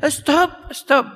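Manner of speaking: high, short cries of protest; mock yelling. Crowd yelling at the men digging, mock shout. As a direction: call it up to them, pitch leaping, volume held back. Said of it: "they kept shouting and yelling at them".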